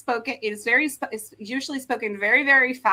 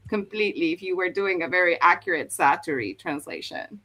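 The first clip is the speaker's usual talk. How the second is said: normal talking voice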